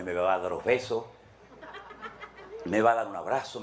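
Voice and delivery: chuckling through the words; laughing. Real, not acted. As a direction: laugh while mocking the hoped-for welcome. Mocking what the churchgoer expects. (riendo mientras se burla)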